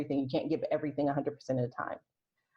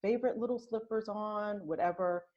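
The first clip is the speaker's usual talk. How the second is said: very lovingly. Shown as a demonstration. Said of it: "very lovingly".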